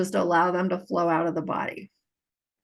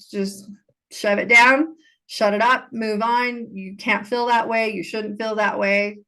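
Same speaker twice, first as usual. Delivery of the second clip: mock dismissive order. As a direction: imitate being told to bottle it up. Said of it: "I was taught".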